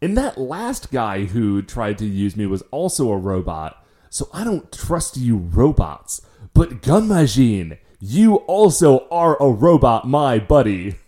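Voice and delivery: slow, measured quote of a wary character; deliberate retold distrust. Character telling Gun Majin he distrusts robots, slow and deliberate. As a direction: retell it slowly, weighing the words.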